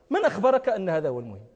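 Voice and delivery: ordinary talk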